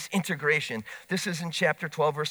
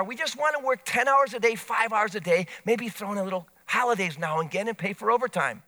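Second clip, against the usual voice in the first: union negotiator; 3 semitones higher than usual. Retold or imitated. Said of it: "kind of union negotiator".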